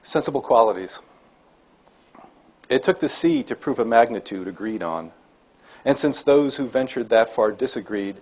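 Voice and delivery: slow, measured poem recital with pauses; deliberate, slightly lifted poet's reading voice; poetry reading. Acted. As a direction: read it line by line, weighting each phrase. Reads own poem aloud to audience.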